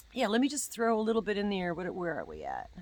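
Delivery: usual speaking voice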